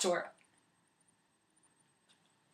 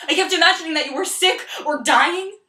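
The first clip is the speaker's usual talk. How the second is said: anxious pleading; 3 semitones higher, 4 dB louder than usual. Acted. Sasha pleads, anxious outburst.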